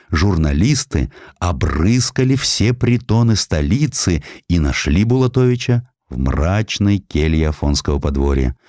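usual speaking voice

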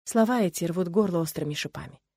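ordinary delivery

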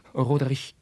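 pleading. Acted. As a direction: beg him for the chance. Carlos begs for a meeting.

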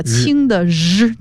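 日 as a light, soft zh sound; soft consonant. Shown as a demonstration. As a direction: say 日 lightly, like the end of luge. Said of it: "而是读那个轻的日".

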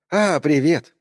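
bright, glad hello on the phone; cheerful greeting. Acted. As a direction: greet him happily. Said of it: "радостно отозвалась она".

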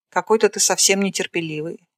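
ordinary delivery, nothing marked

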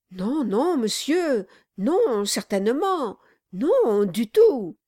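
quick, nervous, placating; hasty denial. Acted. Brass hurriedly denies it to the angry dwarf, nervous. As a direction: backpedal anxiously. Lawyer backing down fearfully.

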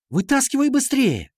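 high-pitched urgent cry; blurted out. A narrator's reading. Ира urges the boy to pull out his fist, alarmed blurt. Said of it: "тут же выпалила".

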